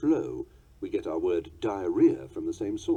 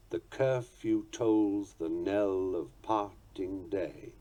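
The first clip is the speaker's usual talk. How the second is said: poem reading; 2 semitones lower, much slower than usual. Shown as a demonstration. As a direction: recite the line slowly and gently. Poetry quoted as example.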